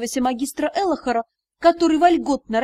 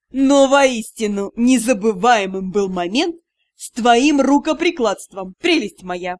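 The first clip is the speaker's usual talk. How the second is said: snide tease; 3 semitones lower, 4 dB louder than usual. Acted. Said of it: "ехидно добавили".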